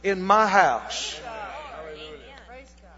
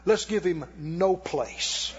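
firm declaration; 2 semitones higher than usual. Retold or imitated. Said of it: "I said".

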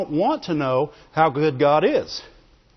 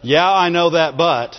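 "Yeah, I know that, but" said louder through a laugh; laughing mock brush-off; 5 dB louder than usual. Preacher mocking the congregation's stock excuse, laughing. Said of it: "is the answer for, "I don't wanna hear what you're saying".

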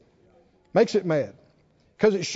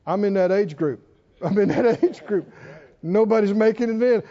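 amused thinking; 2 semitones lower than usual. Retold or imitated. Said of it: "Caleb and Joshua were thinking".

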